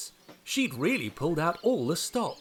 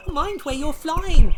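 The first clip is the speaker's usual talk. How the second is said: high, very loud and slow shout; cried out; 13 semitones higher, 13 dB louder, slower than usual. Acted. Thomas ducking and shouting at a pterosaur, very loud. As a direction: bellow it while ducking. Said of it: "he cried".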